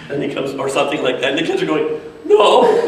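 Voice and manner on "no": very high, loud squealed denial; imitated kids' cry. Kids answer the bear on screen, mock squealing. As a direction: squeal it like delighted children at the TV.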